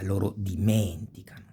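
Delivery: dimenticano with a long men, falling after; stress on fourth-to-last. Shown as a demonstration. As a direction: hold MEN, let ticano fall. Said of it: "falls on the fourth to last".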